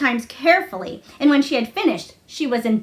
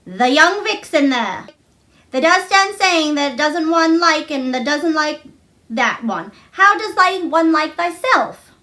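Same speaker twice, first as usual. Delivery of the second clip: mildly mock the mother's rebuke; mother scolding; 4 semitones higher than usual. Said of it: "she turns round to me and says".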